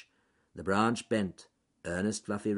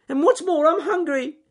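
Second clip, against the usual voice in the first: scared shout; 12 dB louder than usual. Acted. Rabbit on the treetop calling down to the crowd, shouting. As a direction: call down from the treetop in fright. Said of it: "shouted Ernest Fluffy Rabbit".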